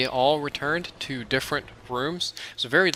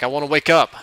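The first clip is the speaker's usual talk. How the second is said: pleading; 3 semitones higher, 7 dB louder, faster than usual. Retold or imitated. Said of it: "And he just laughs".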